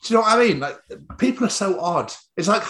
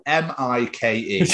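slow, spelled-out letters through laughter; laughing mock shout; 3 semitones lower, slower than usual. Mock barista spelling the wrong name, laughing shout. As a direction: spell it out like a smug barista, cracking up.

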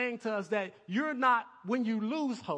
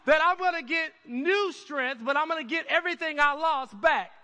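loud joyful outburst; excited preaching; 6 semitones higher, 7 dB louder than usual. Real, not acted. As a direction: shout it with joy. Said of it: "Maybe I'm just excited about it".

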